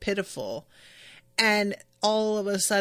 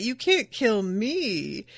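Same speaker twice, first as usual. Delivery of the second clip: mock triumph; slower than usual. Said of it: "he's, like, kneeling and fist pumping".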